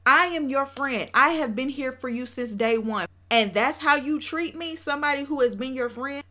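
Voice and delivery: acted indignant confrontation; from the chest. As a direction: stand up to a friend, projecting each point. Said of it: "said it with his chest".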